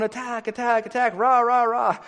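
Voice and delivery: cheerleaders. Acted. Cheerleaders urge the king to attack, mock pep chant. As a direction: imitate a cheering crowd egging on the king. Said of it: "looking at all the cheerleaders, all the people going".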